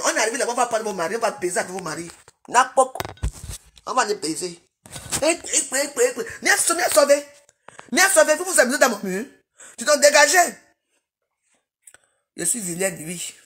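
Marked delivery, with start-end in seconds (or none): 5.2-10.5 higher, louder angry order to leave. Real, not acted. Ordering commenters off her wall, angry and loud. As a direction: drive them off her wall, furious.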